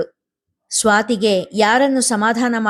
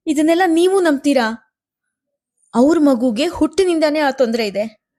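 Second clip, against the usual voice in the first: high, pleading wife's voice; distressed wife pleading with husband, much higher; wife Swathi, desperate appeal; 5 semitones higher than usual. A narrator's reading. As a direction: beg the husband to speak up.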